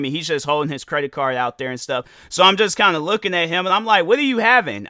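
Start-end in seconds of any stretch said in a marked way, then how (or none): 4.1-4.9 raised voice. Retold or imitated. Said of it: "I said it to a good enough volume".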